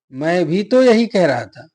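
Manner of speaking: loud push on भी तो in the phrase; emphatic stress. Shown as a demonstration. Teacher demonstrating particle pressure, भी तो stressed. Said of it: "यानी दबाव डाल रहा है".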